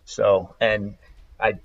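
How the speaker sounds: deep cold voice. Real, not acted. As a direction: voice dropped low from a cold. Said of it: "I'm getting over a cold, so my voice sounds like".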